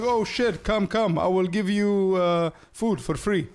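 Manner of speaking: high, excited mock Cypriot welcome; Cypriot accent. Local welcoming an American in a Cypriot accent. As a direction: gush like a Cypriot offering free food. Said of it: "That's the Cypriot".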